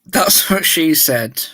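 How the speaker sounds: talking with a mouthful of water; words through a mouth of water; water held in mouth. Real, not acted. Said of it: "hold water in my mouth".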